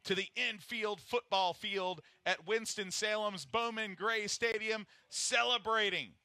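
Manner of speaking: high, loud celebratory commentary; excited race call. Real, not acted. Commentator hails the Daytona winner's infield celebration, excited.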